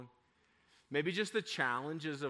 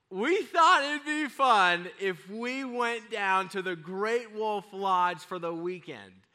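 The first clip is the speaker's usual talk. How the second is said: coy surprise reveal; 4 semitones higher, 5 dB louder, slower than usual. Retold or imitated. Parents revealing surprise to kids.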